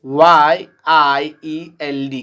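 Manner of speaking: slow, deliberate letter-by-letter spelling for the class; teacher spelling a word slowly to students. Shown as a demonstration. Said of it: "जैसे में".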